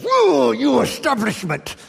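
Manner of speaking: sudden high outburst, fist shaken; little bit angry. Retold or imitated. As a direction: cry out at the establishment, defiant. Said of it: "little bit angry, … shakes his fist".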